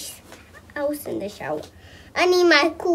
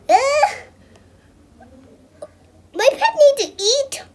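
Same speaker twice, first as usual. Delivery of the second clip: giggling; 10 semitones higher than usual. Real, not acted. Kid giggling while playing game.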